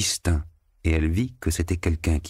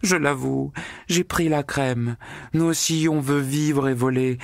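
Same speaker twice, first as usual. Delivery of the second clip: high, breathless happy confession; gleeful and defiant; exultant maid; 7 semitones higher than usual. A narrator's reading. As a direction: maid confessing joyfully to her mistress. Natasha's long confession in flight.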